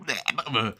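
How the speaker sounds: mock gagging noise; imitated retching. Streamer retelling gagging on a toothbrush, imitated retch. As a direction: make a quick puking noise. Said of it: "and it was like".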